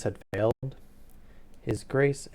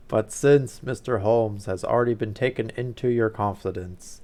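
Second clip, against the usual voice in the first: a louder, booming nobleman; booming Duke; 8 dB louder than usual. Acted. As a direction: let the Duke's words boom out like a dinner gong. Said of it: "I was already using my deep voice".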